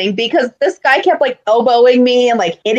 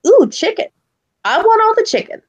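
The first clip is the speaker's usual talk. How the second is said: put-on greedy kid; 10 semitones higher than usual. Inner fat kid voice.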